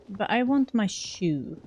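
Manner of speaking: ordinary talk, nothing marked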